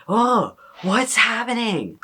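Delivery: high, drawn-out bafflement; mock bewilderment. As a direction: wail it slowly in playful confusion. Mock bewilderment at own new behaviour.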